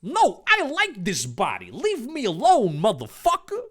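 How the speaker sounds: monster voice. Acted. The monster refuses Dave.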